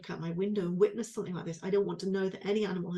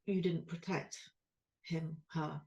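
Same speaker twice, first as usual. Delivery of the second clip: quiet, near tears, voicing her own guilt; soft and fragile, trying not to cry; holding back tears; 3 semitones lower, 6 dB quieter, slower than usual. Real, not acted. Grieving owner quietly blaming herself over the lamb. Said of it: "I'll try not to cry".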